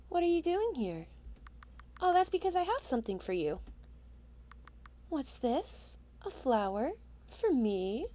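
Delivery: lightly voiced shy boy; a light hint of a timid scarecrow kid. Player voicing the scarecrow boy to the witch, timid.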